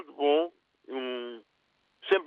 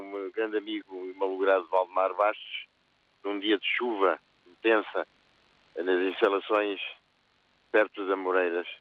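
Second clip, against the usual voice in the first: holding back sobs; 3 semitones lower than usual. Real, not acted. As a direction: voice thick with grief for a friend. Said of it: "desculpa, eu estou emocionado".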